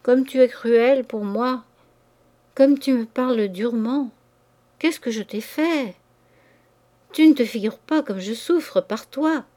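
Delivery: mild timid pleading. Acted. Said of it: "air craintif et soumis de chienne souvent battue".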